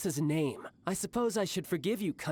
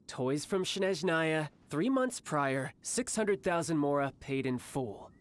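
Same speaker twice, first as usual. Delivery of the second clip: slow, deliberate restating; slow repeat. Acted. Childe repeating the price to thugs, slow and pointed. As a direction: spell it out slowly. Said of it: "I'll say it again".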